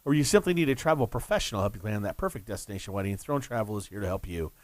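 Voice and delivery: sponsor read on radio. Real, not acted. Host reading Throne Travel ad to listeners, commercial read.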